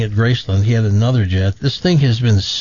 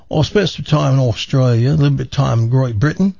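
quick mock Aussie-British accent; put-on Australian-British accent; faster than usual. Man explains his origins to a woman, mock Australian-British accent. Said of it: "what's with that accent".

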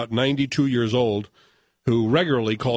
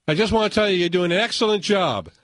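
put-on drunk voice; 4 semitones higher than usual. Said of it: "the drunk voice".

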